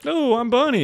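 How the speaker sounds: high, sing-song imitation of a bubbly girl; mock girlie persona. Streamer mocking a TikTok girl's bunny persona, high and bubbly. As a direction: lampoon a cutesy alter ego. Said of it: "She would be like".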